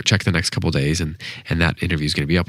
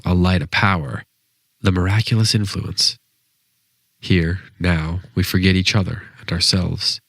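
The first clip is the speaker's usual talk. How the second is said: measured poetry recital with deliberate pauses between phrases; poem reading. Acted. Podcast host reads a Stevens poem to listeners, measured poem reading. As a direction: read the poem aloud, unhurried, letting each phrase stand.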